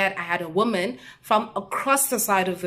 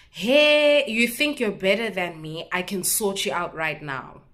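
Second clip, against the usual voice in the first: retold shout. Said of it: "just to shout at me and say".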